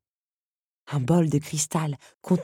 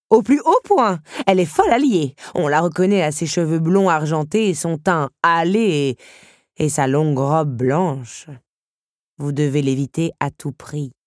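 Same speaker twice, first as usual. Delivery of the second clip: alarmed countess; 5 dB louder than usual. Acted. Countess warning Belle about the madwoman, urgently dramatic.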